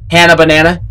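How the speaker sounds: "Hannah" with the A of "cat"; flat-A Hannah. Shown as a demonstration. Gamer working out the name, "Hannah" rhyming with "Banana". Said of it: "not Hana".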